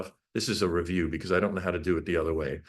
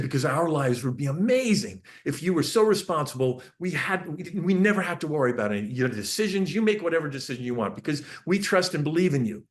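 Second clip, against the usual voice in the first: enthusiastic sales pitch; 6 semitones higher than usual. Retold or imitated. Parent pitching freedom to son.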